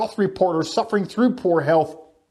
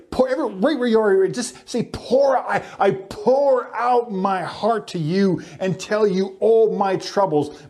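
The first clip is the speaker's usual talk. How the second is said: leading call and response; 3 semitones higher than usual. Shown as a demonstration. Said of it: "Everyone say".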